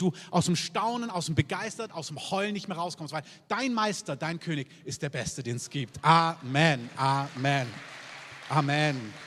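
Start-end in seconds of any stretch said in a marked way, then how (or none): 6.0-9.1 loud ringing amens from the pulpit; fervent repeated amen shout. Real, not acted. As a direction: call out each amen with full force. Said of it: "preacher calling out amen".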